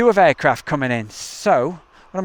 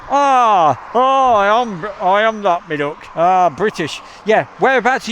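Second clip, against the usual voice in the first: East Midlands dialect; 4 semitones higher than usual. Pretend. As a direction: lay the East Midlands accent on thick, cheekily. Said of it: "That's how they talk local".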